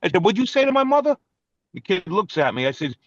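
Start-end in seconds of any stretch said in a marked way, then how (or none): 0.2-1.2 retold confrontation. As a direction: get in his face about it. Confronting the kid in tree.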